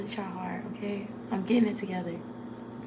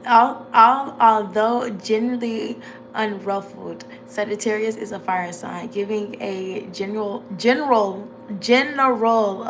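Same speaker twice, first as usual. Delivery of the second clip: country accent; 3 dB louder than usual. Shown as a demonstration. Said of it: "I'm trying to talk inside my country accent".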